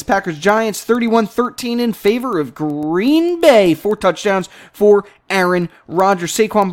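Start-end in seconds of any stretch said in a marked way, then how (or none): 0.0-0.8 Packers said right after stumbling; corrected name. Real, not acted. Host fixing his Pankers slip, plain correction.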